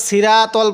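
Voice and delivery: "সিরাতল" with thin s and flat aa after r; mistaken light raa. Shown as a demonstration. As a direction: say "সিরাতল" lightly, without the heavy rounded sounds. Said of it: "যে ভুলটা করি".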